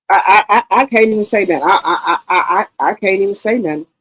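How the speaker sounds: stammering through laughter; too tickled to get the words out; amused, tripping over the first word; laughing. Real, not acted. Tickled by viewer's blunt comment.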